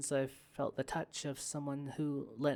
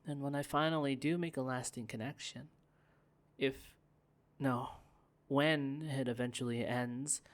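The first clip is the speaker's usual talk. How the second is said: ordinary talk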